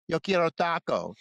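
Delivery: put-on the baby demands tacos; angry baby tirade. Sketch baby demands tacos, mock angry. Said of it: "a tirade of how angry the baby is".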